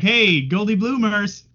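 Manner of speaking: mock familiar greeting. Host imagining running into Jeff out and about, mock familiar hail.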